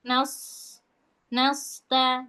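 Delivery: "nasta" with dark s, like "nausta"; sullen thick sod. Shown as a demonstration. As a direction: set a surly jaw on "nasta", rounding the first vowel. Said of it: "Kayak rahang jutek".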